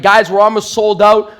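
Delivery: loud, slow hype announcement; retold social media shout-out; yelling promo. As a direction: hype up the crowd, drawn out and loud. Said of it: "I'm yelling off social media".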